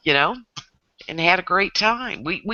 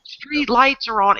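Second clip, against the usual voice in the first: retold mom's call, higher and drawn out; 7 semitones higher than usual. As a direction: call the kids in, slow and raised in pitch. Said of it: "every mom would yell out".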